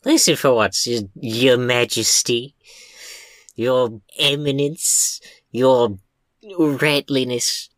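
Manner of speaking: sarcastic mock-regal titles, slowed; mock deference. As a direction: drag out the titles with contempt.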